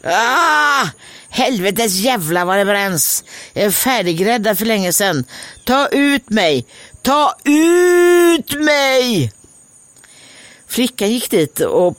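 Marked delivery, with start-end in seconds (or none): 0.0-9.3 high pained voice building to a shout; a burning loaf screaming to be taken out; high, cursing bread ending in a loud yell; bread calling out. Acted. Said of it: "Då ropade brödet".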